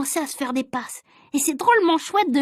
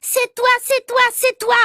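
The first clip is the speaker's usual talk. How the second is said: very high, slow shrieking accusation; tearful boy accusing, much higher and slow; crying out; 11 semitones higher, 3 dB louder than usual. Acted. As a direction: point and wail it out. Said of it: "criait Agnan".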